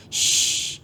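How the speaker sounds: a gentle whispered shh; soft shushing. A narrator's reading. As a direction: hush her tenderly. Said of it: "بہت نرمی سے بولا". (نرمی سے سرگوشی میں شش)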